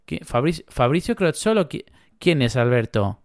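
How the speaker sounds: lighter, lilting Argentine impression; teasing Rioplatense Argentine question; mock Argentine accent. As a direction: keep up a playful Argentine accent, pitched a little high. Keeps up the mock Argentine act.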